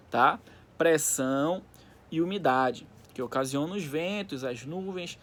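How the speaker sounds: steady textbook reading voice; reading aloud. Acted. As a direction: read the passage to the class. Reads the textbook paragraph aloud. (leitura em voz alta)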